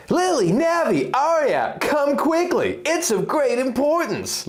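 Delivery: high urgent summons to the fairies; urgent call. Acted. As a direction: call them over fast, it matters. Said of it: "his voice expressing urgency".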